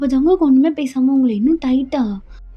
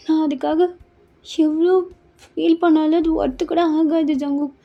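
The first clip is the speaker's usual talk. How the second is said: higher-pitched, mildly anguished regret; pleading apology; 4 semitones higher than usual. Acted. Woman apologising to Jungkook for her mistake, pleading. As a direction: plead for forgiveness with halting pauses. Acted apology begging forgiveness.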